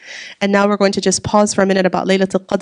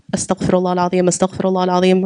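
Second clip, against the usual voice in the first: calm repeated istighfar; dhikr recitation; faster than usual. Shown as a demonstration. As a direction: murmur it as you would while walking. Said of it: "your mouth should be saying what".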